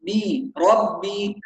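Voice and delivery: "ربي" with a voiced b, never p or m; correct ba. Shown as a demonstration. Teacher models the Quranic sound, ربي with a pure ba. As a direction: give "بي" and "ربي" a clean b. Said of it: "هكذا".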